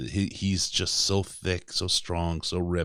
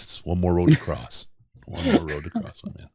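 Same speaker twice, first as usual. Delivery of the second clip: rapper impression. Podcast host quoting a rapper to cheer a player, mock rap voice. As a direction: toss off a quick rapper imitation. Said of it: "words of the famous philosopher, uh, a rapper".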